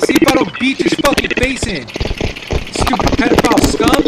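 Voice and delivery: first, hotter threat before the yelling; angry threat. Real, not acted. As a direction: warn him through clenched anger. Threatening a chat opponent.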